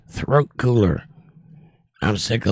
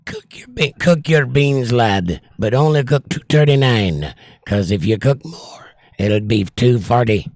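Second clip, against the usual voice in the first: put-on Scottish accent. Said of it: "if you could have heard my Scottish accent".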